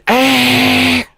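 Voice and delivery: very high squeaky toy voice; cute Puyo voice. Acted. Voicing a Puyo plush, a very high squeak. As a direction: squeak like a tiny cartoon blob. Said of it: "this guy's going".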